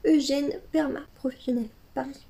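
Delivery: flat robotic brand announcement. Pretend. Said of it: "une voix de robot là". (voix de robot)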